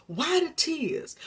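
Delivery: high, breathless whisper of pain; whispered anguish. Acted. Voicing a grieving listener, a pained whisper. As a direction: let the question break into a whisper.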